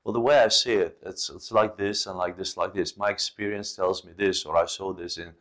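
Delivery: disagree kindly and gently; calm polite disagreement; respectful and calm. Pretend. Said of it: "be respectful and say".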